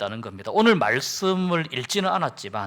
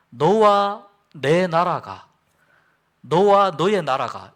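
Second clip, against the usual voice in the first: louder, slow, heavy words; angry king; 2 semitones higher, 6 dB louder, slower than usual. Acted. Saul warning his son Jonathan, slow and loud. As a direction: lean on each word like a furious king. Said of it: "아주 크게 화를 내면서".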